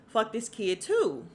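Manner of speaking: slow, drawn-out mock dismissal; Issa Rae. Vlogger voicing an uncaring father, light comedian impression. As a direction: lightly imitate a comedian, stretching each word. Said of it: "and my Issa Rae, uh, voice".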